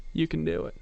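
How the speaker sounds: soft, calm coaxing; gentle reassurance. Retold or imitated. Hand on her back, calming her softly. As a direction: reassure her she's safe. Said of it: "I said".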